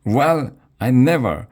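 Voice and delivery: high, loud indignation; offended British lady, huffy and high; affronted lady. A narrator's reading. Offended British lady backs away.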